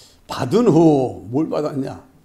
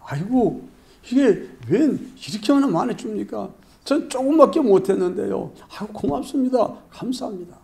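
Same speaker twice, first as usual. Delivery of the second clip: overwhelmed thanks; 4 semitones higher than usual. Acted. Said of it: "얼마나 감사하고 고맙겠습니까".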